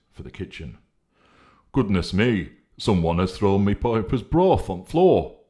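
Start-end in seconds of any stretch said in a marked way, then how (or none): 1.7-5.4 a slightly raised, louder character voice; lightly voiced, a touch up and louder; Honesty exclaiming over spilled broth, mildly raised; Honesty's voice. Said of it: "remarked Honesty".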